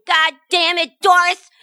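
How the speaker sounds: mock angry yell at his wife; hammed-up yelling at Doris; retold yelling. Husband yelling at wife over the nightgown, mock angry. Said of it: "starts yelling".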